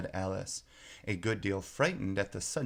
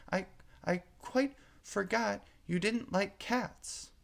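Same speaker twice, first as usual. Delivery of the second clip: 1 flustered apology; 10 semitones higher than usual. A narrator's reading. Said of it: "afraid that she had hurt the poor animal's feelings".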